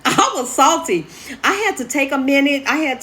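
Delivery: rueful laugh at own disappointment. Real, not acted. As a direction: chuckle through the admission. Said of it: "I'm emotional".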